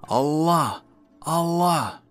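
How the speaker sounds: high, loud war cry; battle shout. Acted. Mice charging the cats armed to the teeth, shouting.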